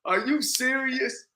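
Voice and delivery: high, slow, incredulous mock heckle; voice from the back. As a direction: play a doubter calling from the back of the room. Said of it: "I got a voice from the back saying".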